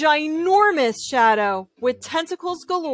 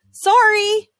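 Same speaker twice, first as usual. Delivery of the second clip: sorry; 11 semitones higher, 6 dB louder than usual. Acted. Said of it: "said Clark".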